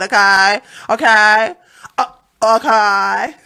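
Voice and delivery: mock effeminate diva. Host mocks effeminate voice.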